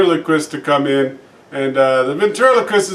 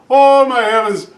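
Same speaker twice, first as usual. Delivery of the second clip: the priest hams up a miracle; a hint of pious astonishment; mock amazement; 4 semitones higher than usual. Priest feigns a miracle, punchline.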